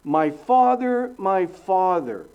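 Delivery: a hint of an anguished plea; slow crying out. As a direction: call out slowly to a father, voice lifted. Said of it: "Notice he didn't say".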